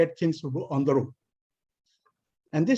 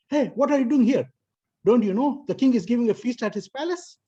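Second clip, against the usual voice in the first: higher and louder, eager insistent call; excited, with conviction; 7 semitones higher, 4 dB louder than usual. Retold or imitated. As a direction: sell the fake news with full conviction. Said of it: "said very excitedly with conviction".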